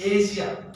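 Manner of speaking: Asia with a voiced middle, AY-zhia; corrected pronunciation. Shown as a demonstration. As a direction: model Asia firmly with 'zh' in the middle. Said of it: "It's As".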